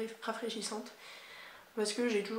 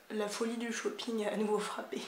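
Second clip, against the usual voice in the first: whisper. Acted. Dramatic haul announcement.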